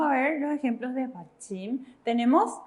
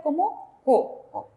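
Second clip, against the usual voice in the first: slow demo; 2 semitones higher, much slower than usual. Shown as a demonstration. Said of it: "¿Cómo va a sonar eso?".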